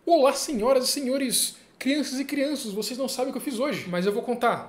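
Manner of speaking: hammy circus announcer; ringmaster. Pretend. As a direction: welcome the crowd like a showman. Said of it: "announcer opening the video".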